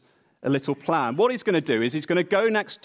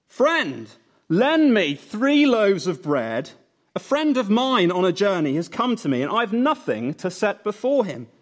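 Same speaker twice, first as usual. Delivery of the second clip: raised, slowed call at the door; mock shout; 5 semitones higher, 3 dB louder than usual. Cyril calling his neighbour for bread, mock shout. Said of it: "he shouts out at the top of his voice".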